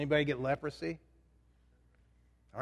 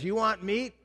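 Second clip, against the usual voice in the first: higher, mock stern God voice; angry God; 4 semitones higher than usual. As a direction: scold them as fed-up God. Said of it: "God says".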